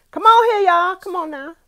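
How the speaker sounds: high, loud and sharp. Real, not acted. Hyped about the food.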